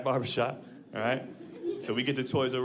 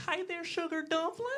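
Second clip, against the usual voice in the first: much higher, sweet Southern waitress voice; 13 semitones higher, 6 dB quieter than usual. Retold or imitated. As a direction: coo it like a syrupy diner waitress. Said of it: "she's like".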